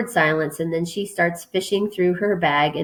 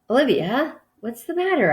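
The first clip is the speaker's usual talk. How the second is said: higher, gently rising question of concern; 7 semitones higher than usual. A narrator's reading. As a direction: check on an upset friend, pitched up. Asking a tearful friend what's wrong.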